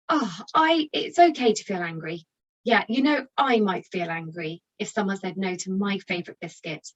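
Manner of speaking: calm, validating, understanding; empathetic parent. Shown as a demonstration. Parent calming an angry child, empathetic and steady. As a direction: accept the anger and offer help. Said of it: "try something like this instead".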